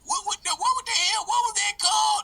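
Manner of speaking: redneck voice. Acted. Redneck Bill asks.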